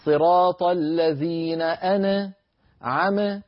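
chanted, أنعم with the nun bounced into a vowel; wrong wobbly sukun. Shown as a demonstration. Teacher demonstrating the wrong recitation, slow chant. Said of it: "المتكلم بهذه الطريقة يكون قد أخرج الحرف الساكن باهتزاز".

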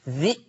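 ذي cut short by a glottal stop; short ذي stopped in the throat; sounded hamza. Shown as a demonstration. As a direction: say ذي as "dhi'". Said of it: "سامعين صوتي؟".

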